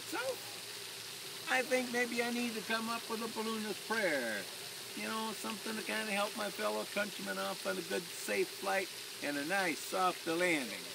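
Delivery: put-on Irish clergyman musing softly, mild Irish accent. Pilot plays clergyman planning a prayer, mild Irish accent. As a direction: lightly put on an Irish accent, thinking aloud. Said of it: "that's in my best Irish accent".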